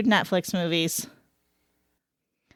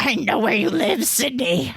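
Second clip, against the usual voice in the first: heavy breathing phone whisper. Retold or imitated. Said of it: "You sound like this guy on the phone calls on Scream".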